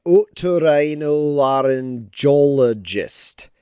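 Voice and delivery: otorhinolaryngologist said slowly, syllable by syllable; slow careful pronunciation. Shown as a demonstration. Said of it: "words to teach Cam how to read".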